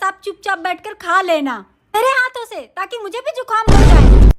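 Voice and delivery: sudden loud burst at the end; sarcastic daughter-in-law snapping back; loud outburst. Acted. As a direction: blurt it out loudly.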